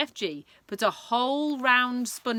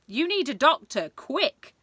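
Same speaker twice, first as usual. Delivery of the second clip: alarmed King crying out; 7 semitones higher, 6 dB louder than usual. Acted. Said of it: "cried the King".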